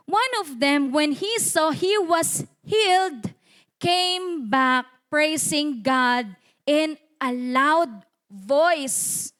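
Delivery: very slow, emphatic verse reading; scripture reading. Acted. Preacher reads verse fifteen to congregation, slow scripture reading. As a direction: draw out each phrase of the verse.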